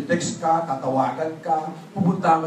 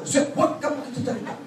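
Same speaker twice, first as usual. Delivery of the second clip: mock dread; 6 semitones higher than usual. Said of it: "palapit pa lang".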